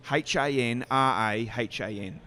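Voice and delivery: drawn-out spelling with Aussie "H". Shown as a demonstration. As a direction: spell it out slowly, letter by letter. How he used to spell by phone.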